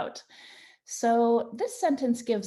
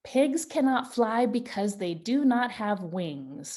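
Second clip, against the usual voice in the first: reading aloud. Shown as a demonstration. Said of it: "That is what I decided to add".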